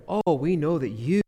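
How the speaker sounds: lightly put-on flattery; butter him up a little; flattering tone. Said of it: "read it on purpose with that tone".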